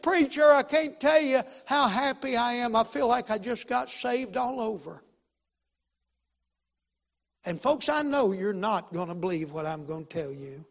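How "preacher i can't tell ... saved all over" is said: high, loud happy testimony, easing off; elated imitated exclamation; retold overjoyed man. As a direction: re-enact someone bursting with happiness.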